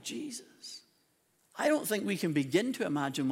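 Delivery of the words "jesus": breathless hush after the build; whispered name. Real, not acted. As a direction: drop to a whisper. Hushed end of climax.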